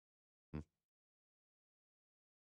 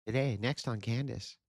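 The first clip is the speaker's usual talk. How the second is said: higher, teasing promo voice; mock show announcer; 5 semitones higher than usual. Parodying Candace's show promo, teasing announcer. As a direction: tease the next episode like a host.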